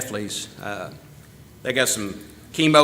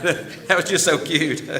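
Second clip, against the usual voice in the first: a fond laugh breaking into the line; laughing fondly; 3 semitones higher than usual. Real, not acted. Telling Yvonne her phone call was cute, laughing. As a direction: chuckle it out, amused.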